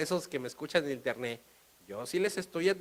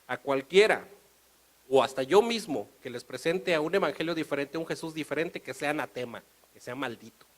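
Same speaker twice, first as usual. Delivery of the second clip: Paul quoted. Retold or imitated. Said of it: "el apóstol Pablo dice".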